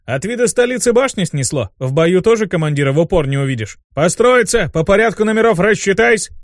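high, rising to a drill shout; scold, then bellow the order; commander laying into him. Acted. Dean scolding the imp and ordering the squad, barking. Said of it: "наехал на беса".

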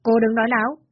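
a loud, sharp denial; husband denies it loudly. Acted. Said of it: "Dũng liền lớn tiếng".

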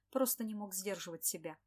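usual speaking voice

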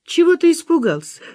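laughing, teasing. Acted. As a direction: tease him through laughter. Расхохоталась.

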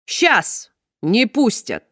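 очень медленно, с угрозой; хищно передразнить жену; угрожающая усмешка. Acted. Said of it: "хищно раздул ноздри". (клетчатый муж угрожающе повторяет за женой)

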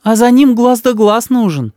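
высокий, ласковый голос матери; мама заступается за сына. A narrator's reading. Мама по телефону. (голос мамы, выше)

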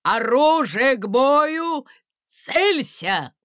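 loud, slow drilled orders; military command. A narrator's reading. Guard chief ordering the musicians to aim. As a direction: drill the squad.

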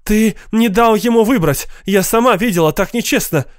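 high-pitched protesting outburst; indignant woman crying foul; outraged accusation. A narrator's reading. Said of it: "Тесси Катчинсон набросилась на господина Саммерса".

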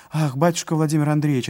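put-on old servant, high and loud; a breathless old man crying out; breathless old speaker. A narrator's reading. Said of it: "отвечал старик, задыхаясь".

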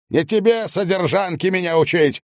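high snapping retort; snapping back. A narrator's reading. Medников snapping at Yuri, contemptuous. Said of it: "огрызнулся Медников".

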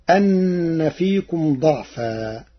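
slow chanted verse; Quranic recitation. Shown as a demonstration. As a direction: draw it out like tajweed. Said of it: "verse recitation".

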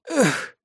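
a high, soft breathy "Эх" as she collapses; exhaled sigh. A narrator's reading. Salon hostess sighs as the spirit leaves her. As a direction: let the air out in one short sigh. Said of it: "выдохнула хозяйка салона".

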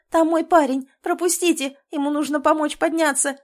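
high, loud pleading; loud, urgent pleading to be let through; desperate shout. A narrator's reading. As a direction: push past and shout at him. She begs the guard loudly.

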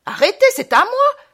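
wild, high-pitched yell; furious shout. Acted. Hatless traveller rushing at the mourners, furious shout. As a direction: scream it like a madman. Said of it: "furieux sans chapeau, comme un fou, je m'élance".

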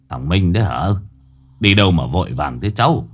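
put-on kindly old man. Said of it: "ân cần".

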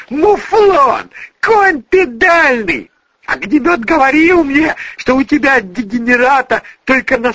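high, loud shrieking through tears; betrayed girl screaming at her lover, crying; tearful furious screaming. A narrator's reading. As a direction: scream insults on the edge of crying.

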